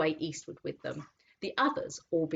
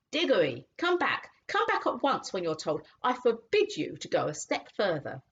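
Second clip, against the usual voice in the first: half-hearted shout; 4 semitones higher than usual. Acted. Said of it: "shouting, but by no means at the top of his voice".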